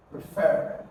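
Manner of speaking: refer with the weight on FER; teacher's model refer, leaning on the last syllable; stress on second syllable. Shown as a demonstration. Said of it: "to stress the second syllable".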